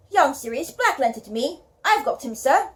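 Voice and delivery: a lightly voiced West Country giant in a British accent; an amateur British accent for the big gamekeeper; British accent as Hagrid. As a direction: speak as Hagrid with a gentle attempt at a British accent. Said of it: "my British accents".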